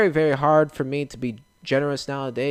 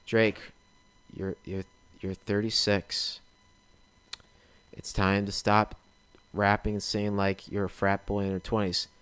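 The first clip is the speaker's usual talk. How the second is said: stern parent; 5 semitones lower, 8 dB quieter than usual. Pretend. Parent lecturing a rapper in skit.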